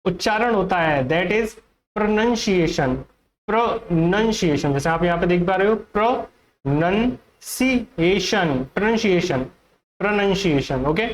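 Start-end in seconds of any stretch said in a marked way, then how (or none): 1.1-4.7 "pronunciation" with NUN, not NOUN, in the second syllable; correct pronunciation. Shown as a demonstration. Teacher shows students the correct word, carefully pronounced. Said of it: "तो इसका जो correct उच्चारण होता है". 6.6-10.8 "pronunciation" broken up as pro-nun-see-ay-shun; correct pronunciation. Shown as a demonstration. Teacher repeats the correct word for students, carefully pronounced. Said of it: "तो इसका जो correct उच्चारण होता है".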